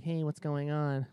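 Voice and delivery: laid-back retold hello, stretched out; casual greeting. Man greeting the girl at the furniture store, casual and drawn out.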